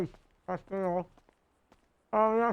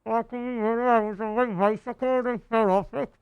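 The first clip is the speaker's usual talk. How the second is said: through a balaclava; 4 dB louder, faster than usual. Real, not acted. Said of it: "You're a little muffled".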